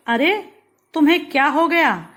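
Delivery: startled, as if you just saw them hurt; alarmed what happened to you; surprised. Shown as a demonstration. Reading an example of surprise.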